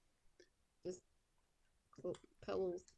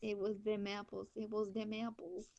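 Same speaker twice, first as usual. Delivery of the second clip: put-on southern accent. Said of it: "Why do you sound like I do normally".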